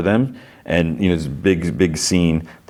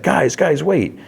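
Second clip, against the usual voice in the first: high-pitched plea to be waited for; mock frantic calling; 10 semitones higher, slower than usual. Stranded driver gets out calling friends, mock frantic. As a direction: call after them in a raised, panicky voice. Stranded man calls after the others.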